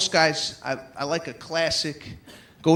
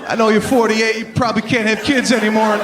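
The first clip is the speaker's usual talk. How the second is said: high, loud, fast hammed-up proposal; mock earnest proposal blurted out loud; blundering proposer; 6 semitones higher, 7 dB louder, faster than usual. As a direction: plead it like a tactless boyfriend. Guy's clumsy proposal speech.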